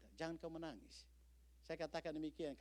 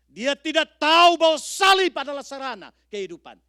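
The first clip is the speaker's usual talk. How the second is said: higher and much louder, hammering each sedalam apapun; preaching at full force; 14 semitones higher, 27 dB louder than usual. Acted. Preacher thundering at the congregation about suffering, full-force preaching. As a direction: build to a thundering pulpit cry.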